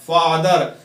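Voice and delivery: father said as fa-ther, in two firm beats; two syllables. Shown as a demonstration. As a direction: sound out both syllables of father. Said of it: "दो हिस्सों में पढ़ रहे हैं".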